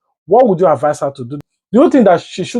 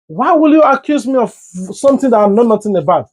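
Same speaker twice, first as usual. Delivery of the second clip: mock indignant; 5 semitones higher, faster than usual. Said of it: "assault you back and say".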